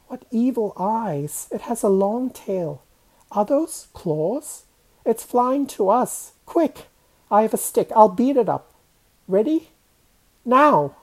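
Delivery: high, frightened voice building to a shout; from scared wonder to loud urgent command; mounting alarm. Acted. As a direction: panic rising as it comes closer. Child sees a ghost flying closer.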